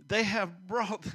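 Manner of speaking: "They" punched at the start; stress on they. Shown as a demonstration. Preacher stressing "They" to show Saul shifting blame. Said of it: "say it louder".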